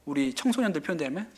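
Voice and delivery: ordinary delivery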